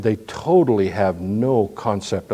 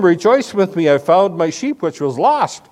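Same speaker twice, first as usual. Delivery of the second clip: joyful call to friends; 5 semitones higher, 3 dB louder than usual. Retold or imitated. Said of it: "saying to them".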